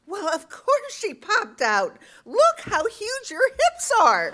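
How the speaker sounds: high, loud, drawn-out exclamation; imitating her, slow and piercingly high; mock loud retort. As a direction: act out her loud, tactless outburst. Acting out another woman's blunt retort.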